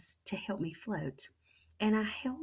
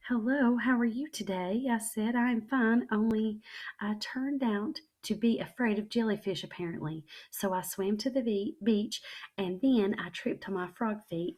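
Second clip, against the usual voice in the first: higher, overly polite innocence; fake casual; 5 semitones higher, 3 dB louder than usual. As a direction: act like nothing happened. Child feigning casual after fleeing.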